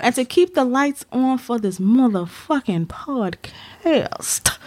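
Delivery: smooth, slow hustler pitch; lightly voiced pimp selling hard. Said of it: "That's my pimp voice".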